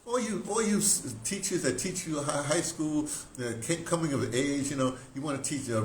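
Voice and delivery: ordinary delivery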